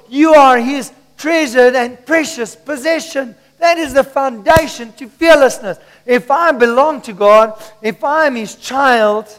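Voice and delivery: emphatic preacher in full flow; preaching. Real, not acted. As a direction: proclaim the promise to a congregation. Preaches with rising force.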